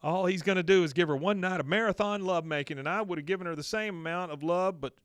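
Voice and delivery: acted-out wounded protest; aggrieved complaint. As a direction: complain on a character's behalf. Retelling a character's aggrieved complaint.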